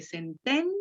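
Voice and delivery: sententiam with stress on TEN, i and a separate. Shown as a demonstration. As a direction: model sen-TEN-ti-am. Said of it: "tónica está en ten". (sententiam acentuado en TEN, sin diptongo)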